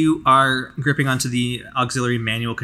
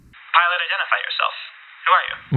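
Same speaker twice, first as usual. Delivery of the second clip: brisk demand from the commander; Amelia commanding; 6 semitones higher, faster than usual. Acted. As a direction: challenge the stranger firmly. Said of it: "Amelia speaks".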